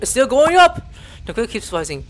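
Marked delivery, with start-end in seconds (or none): 0.0-0.8 frustrated character. Acted. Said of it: "He's like".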